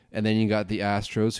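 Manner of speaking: ordinary talk, nothing marked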